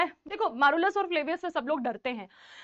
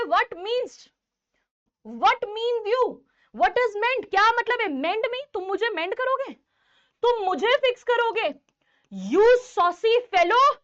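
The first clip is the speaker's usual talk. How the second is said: higher-pitched, affronted questioning; acted indignation; 4 semitones higher, slower than usual. Official takes offence at the cobbler's offer to mend him, indignant.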